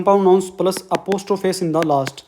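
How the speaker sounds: each word drawn out slowly; slow dictation. Shown as a demonstration. Teacher dictating rule for notes. (धीरे-धीरे नियम लिखवाना)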